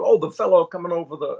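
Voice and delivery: lightly imitated celebrity; Sean Connery. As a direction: recognize someone, as a Scottish film legend. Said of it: "He goes".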